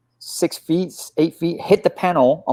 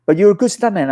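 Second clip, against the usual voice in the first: Jackie Chan imitation; 8 semitones higher than usual. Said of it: "And he goes".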